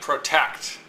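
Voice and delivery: protect with TECT stressed, PRO light; stress on second syllable. Shown as a demonstration. Teacher introducing an example word, stressing the TECT in protect. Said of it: "The tect is the stressed part".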